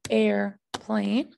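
"airplane" as two beats, air, plane; split into syllables. Shown as a demonstration. Teacher showing the syllables of the next word, "airplane" in two beats. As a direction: break "airplane" after "air". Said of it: "Our syllables right there".

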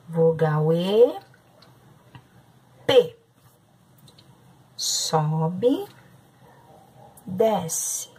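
calm, step-by-step teacher voice, each stroke its own phrase; teacher talking a class through writing P; handwriting guidance. Acted. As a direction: guide the children's pencil stroke by stroke.

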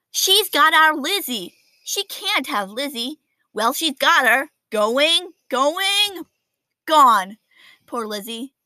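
put-on a touch of kids counting down to gone; kids' voices. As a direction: watch the lizard disappear, dismayed. Kids lose the class lizard.

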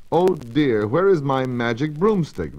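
a hint of a fretful old witch calling out; old witch crying out. The old witch frets aloud over her lost broomstick, in a lightly voiced mild cry. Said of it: "the old witch cried".

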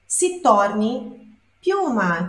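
piuma drawn out slowly, each syllable clear; slow Italian word. Shown as a demonstration. Teacher modeling Italian for students, slow and clear. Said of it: "É mais fácil que uma pedra".

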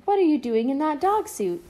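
put-on high, loud little girl's cry; child's yell. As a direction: shout at mommy in the dog suit. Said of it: "yelled Emily".

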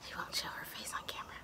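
soft unvoiced aside; hushed aside about the shy cat; whisper aside. Real, not acted. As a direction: mutter it to the viewers.

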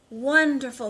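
loud, happy wonderful; pleased grocer. Acted. Grocer answers the truck driver, loudly pleased. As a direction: beam as you say wonderful. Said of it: "said the grocer".

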